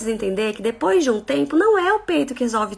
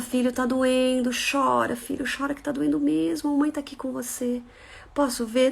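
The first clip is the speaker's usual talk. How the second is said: put-on soft, gentle comfort to a hurt child; soothing a child; 4 dB quieter than usual. Mother voices comforting a child. (consolando o filho com voz suave)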